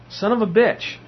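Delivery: high, amazed curse under the breath; stunned disbelief. Retold or imitated. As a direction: let it slip out in shock. His reaction on seeing it.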